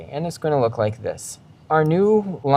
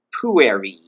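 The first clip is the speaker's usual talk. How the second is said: "Pueri" punched on the first part, ending low; low-pitched demo of "Pueri"; Pueri staying low; 4 semitones lower than usual. Shown as a demonstration. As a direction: keep the final i of "Pueri" down. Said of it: "the pitch of my voice is staying low".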